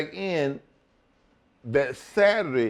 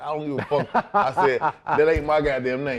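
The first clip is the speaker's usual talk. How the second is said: laughing refusal. Retold or imitated.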